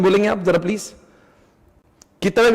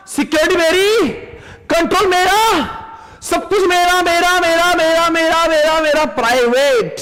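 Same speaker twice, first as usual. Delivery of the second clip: building, higher "मेरा, मेरा" like a greedy owner; possessive mock owner; 4 semitones higher than usual. Teacher playing a greedy cloud owner, building possessive chant. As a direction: claim everything as mine, rising.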